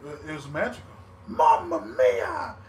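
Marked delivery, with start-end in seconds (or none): 1.3-2.6 high, loud, drawn-out Italian Mamma mia in a cartoon-plumber accent; Mario Italian accent. Podcaster mocking an announcer's Italian flair, hammed-up Mario accent. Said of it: "It's like Super Mario Brothers".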